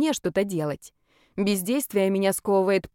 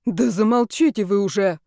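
a touch of louder indignant snapping; crowd's anger; 4 dB louder than usual. Acted. Bystander silencing the brawling woman, mildly indignant. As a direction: tell her to shut up, fed up. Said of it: "направился на неё народный гнев".

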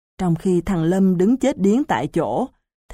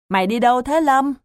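fast, raised call after a friend; 5 semitones higher, faster than usual. Acted. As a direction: call out to him as he leaves. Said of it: "Quý Ròm kêu lớn". (gọi to, nhanh, với theo bạn)

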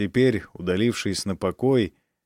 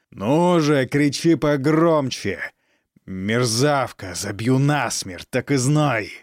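slow taunting threat; 2 semitones higher, slower than usual. Acted.

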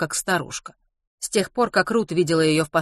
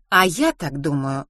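slow, muted grumble; grumbled retort. Acted. Gloria counters Mrs Pomeroy's view, slow grumble. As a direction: grunt your disagreement. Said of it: "буркнула Глория".

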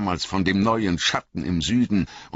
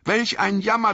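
put-on much higher, complaining young hobbit voice on Jammer; Frodo, bitter; 4 dB louder than usual. A narrator's reading. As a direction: spit out Jammer as the anxious hobbit. Frodo laments Bilbo's mercy.

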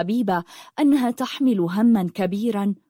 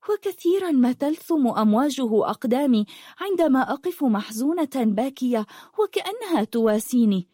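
put-on lightly raised voice of a wistful teenage girl; a hint of a girl in love with the sea; dreamy young girl; 4 semitones higher than usual. Rafif continues her confession.

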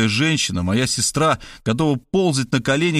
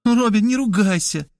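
gentle plea; 10 semitones higher than usual. A narrator's reading. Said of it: "мягко попросила Кристина".

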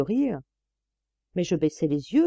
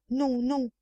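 higher, a hint of flustered stammer; 6 semitones higher than usual. A narrator's reading. Master begs her to stay, mildly stammering. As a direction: blurt it out flustered. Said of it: "balbutia-t-il".

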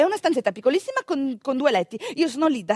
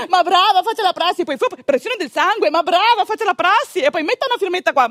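mocking patronizing; 4 semitones higher, 3 dB louder than usual. Patronizing nurse mocked.

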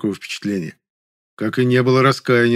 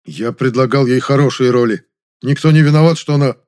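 indignant; 3 semitones higher, 6 dB louder than usual. Acted. Offended director flushes, argues.

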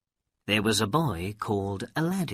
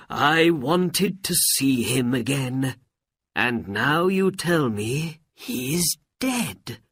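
grieving; 3 semitones higher than usual. A narrator's reading. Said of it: "and began to cry".

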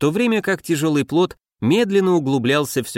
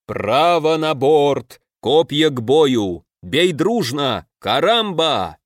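drawn-out roar; much slower than usual. Acted. The king roars orders to his pirate crew, slow and booming. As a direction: roar orders across the raft like a pirate captain. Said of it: "протяжно взревел".

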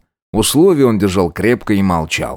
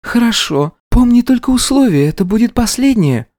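much higher, sly wife's voice; the bride coolly reminding him of the terms; bright-eyed schemer laying down the rules; scheming bride. Acted. Wife sets her terms.

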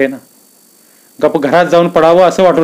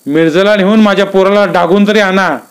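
pleading father; 6 semitones higher, 3 dB louder than usual. Acted. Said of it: "सांगू लागला".

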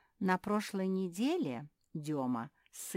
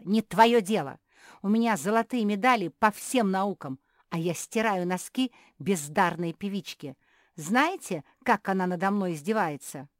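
angry shouting; 4 semitones higher, 11 dB louder than usual. Acted. Beatrice keeps shrieking angrily.

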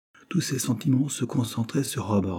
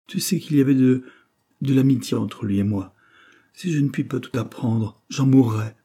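vehement; 4 semitones higher, 4 dB louder than usual. Acted. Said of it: "s'écria-t-elle avec véhémence".

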